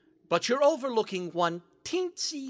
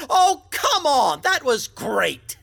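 excited; 4 semitones higher, 4 dB louder than usual. Acted. Pushes for credit on his joke.

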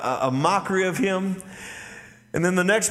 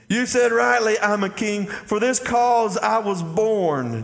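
proclaimed; 5 semitones higher, slower than usual. Shown as a demonstration. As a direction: declare it like a royal claim, slowing at the end. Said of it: "Jesus, y'all catch this".

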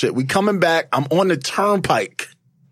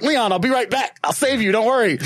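higher-pitched call back to a friend; retold calling out, pitched up; mock reassurance; 6 semitones higher than usual. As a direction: call out a hasty promise while leaving. Calls back to friend left behind.

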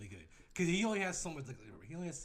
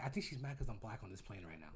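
feigned innocence; 8 semitones lower, 8 dB quieter than usual. Pretend. Feigning innocence to cabin crew.

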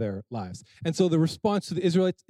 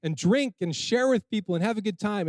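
Nehemiah taking charge; 5 semitones higher than usual. Retold or imitated. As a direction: halt the weeping crowd like a brisk governor. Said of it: "And here's Nehemiah saying".

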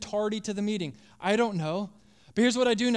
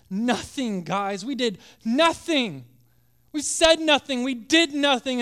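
higher and louder, anguished; desperate outburst; 4 semitones higher, 6 dB louder than usual. Acted. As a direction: cry out in despair. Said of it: "That was his attitude, one of desperation".

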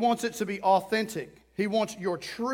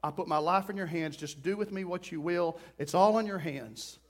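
quiet prayer; 3 semitones lower, 4 dB quieter than usual. Retold or imitated. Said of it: "But I was praying".

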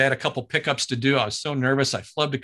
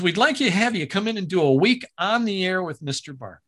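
a bit higher, lightly voiced producer; Roger Dobkowitz impression; 4 semitones higher than usual. Producer offering the job, light impression. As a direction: offer the week on air in his voice. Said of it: "when I'm doing him".

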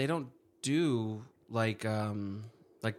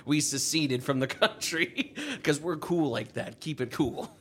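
radio DJ voice; 4 semitones higher, slower than usual. Pretend. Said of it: "I sounded like a D J on the radio".

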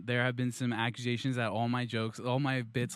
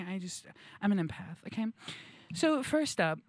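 lightly voiced self-declared empath, earnest; earnest empath guest; 5 semitones higher than usual. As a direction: play an over-sincere empath explaining themselves. Plays an empath guest in a sketch.

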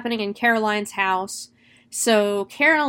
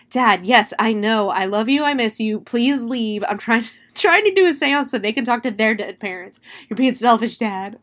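louder, mock-exasperated plea to a parent; exasperated pleading; 4 dB louder than usual. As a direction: plead with a pestering parent, half laughing. Pestered medium scolding ghost dad.

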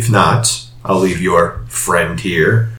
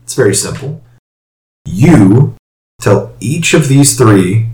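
raised, theatrical gentleman voice; smooth dealer making an offer; Mister LaCroix voice. Acted. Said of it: "He's like".

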